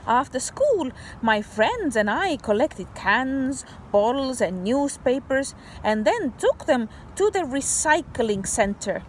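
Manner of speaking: put-on bright read-aloud voice for kids; story reading. Teacher reading a story to kids, storybook voice. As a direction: read the picture book to children.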